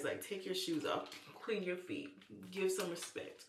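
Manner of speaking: talking with soap in mouth; words round a mouthful of soap. Real, not acted. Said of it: "now I got soap in my mouth".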